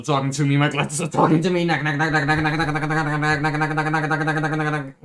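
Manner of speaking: loud, frantic calling; urgent yelling to get Dave's attention; frantic shout. Acted. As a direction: pound on the door with your voice. Frantic knocking, calling Dave.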